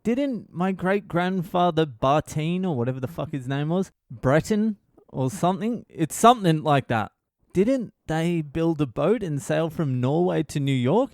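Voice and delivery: a hint of the earnest son pressing for family lore; Jordan Peterson impression. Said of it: "Peterson's like".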